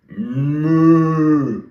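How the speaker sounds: a long, steady moo; demo cow moo. Shown as a demonstration. Teacher modelling a moo for kids to copy. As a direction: show the kids how a cow moos. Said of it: "Like me?".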